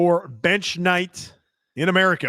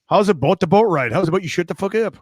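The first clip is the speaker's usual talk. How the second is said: hammed-up Minnesota accent with round vowels; exaggerated Upper Midwest Minnesota "oot and aboot" accent; mock Minnesota accent; 3 semitones higher, 4 dB louder, faster than usual. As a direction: tease with a quick, bouncy Minnesota accent. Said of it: "You know that accent".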